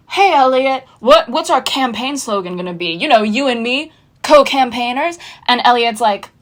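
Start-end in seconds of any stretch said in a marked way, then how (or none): 0.1-5.2 eager Margot. Retold or imitated. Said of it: "So Margot, who came up with the idea, was like".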